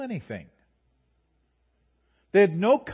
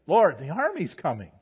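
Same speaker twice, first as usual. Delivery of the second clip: higher, louder, slow desperate pleading to the Lord; frantic prayer in a raised voice; panicked cries; 5 semitones higher, 5 dB louder than usual. Retold or imitated. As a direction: cry out as if trapped by an army. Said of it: "We can imagine".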